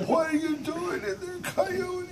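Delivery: high-pitched loud monster cry; monster asking again. Acted. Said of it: "The monster said".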